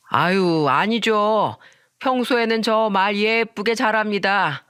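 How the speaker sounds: tipsy man, lightly mocking; drunk friend. Drunk friend answering the offended wife, teasingly dismissive. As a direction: brush her off with boozy breeziness.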